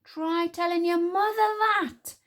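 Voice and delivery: slow, high angry retort; glowering. A narrator's reading. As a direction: throw it back crossly, drawn out. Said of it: "Tsar glowered".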